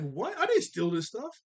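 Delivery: put-on high, indignant kid voice; Dill protesting. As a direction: deny it like a wronged little boy.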